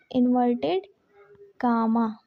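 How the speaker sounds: इनवर्टेड said slowly with a pause before कामा, pitch dropping; slow, split apart. Shown as a demonstration. Teacher repeating the term slowly for students to copy, split apart. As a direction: spell out इनवर्टेड, pause, then a low कामा. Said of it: "इनवर्टेड कामा repeated".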